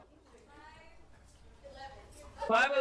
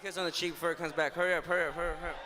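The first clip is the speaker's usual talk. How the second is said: playful urging; 5 semitones lower, much faster than usual. Pretend. Playful sneaky urging before he returns.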